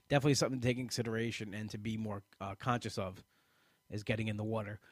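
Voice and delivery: words stretched by a yawn. Real, not acted. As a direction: talk through a yawn. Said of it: "I keep ru-, yawning".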